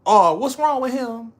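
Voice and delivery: hammed-up disbelieving critic; mock critic. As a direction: imitate fans judging him. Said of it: "that might get me like".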